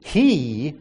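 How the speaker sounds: "he" set apart by pauses, firmly stressed. Shown as a demonstration. Reading Abram's words about his heir, stress on "he". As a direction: land on "he" alone, then pause.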